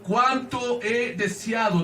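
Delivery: slow, drawn-out exclamation on "Cuánto"; exclamatory quote. Retold or imitated. Preacher quoting Jesus to the congregation, mildly exclamatory. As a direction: proclaim the quote, stretching it out slowly. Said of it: "en una forma exclamativa".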